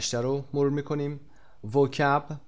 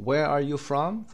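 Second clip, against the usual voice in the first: slow model question; 3 semitones higher, much slower than usual. Shown as a demonstration. Teacher models question slowly.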